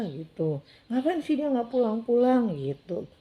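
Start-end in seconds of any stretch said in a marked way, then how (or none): 0.9-2.6 high, louder mock childish protest; imitated grumbling. Child wanting the newcomer gone, imitated loud grumbling. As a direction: complain crossly, pitched up. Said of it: "itu malah ngomel-ngomel gitu".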